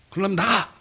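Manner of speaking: sharp imitated outburst; retold angry order. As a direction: act out throwing someone out. Retold angry pastor orders him out.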